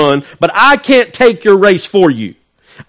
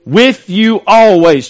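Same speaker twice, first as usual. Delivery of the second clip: preaching emphasis; 3 semitones higher, 4 dB louder, much slower than usual. Acted. Preacher punching the scripture line.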